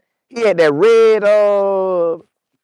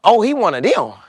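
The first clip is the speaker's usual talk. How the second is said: higher, hurried nervous backing off; backing down nervously; 5 semitones higher than usual. Retold or imitated. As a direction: plead that you don't want a fight. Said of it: "Jerry was like".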